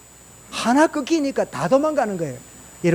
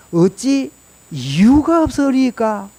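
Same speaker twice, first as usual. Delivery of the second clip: slow solemn David; 3 semitones higher, much slower than usual. Acted. Voicing David's reply, drawn out.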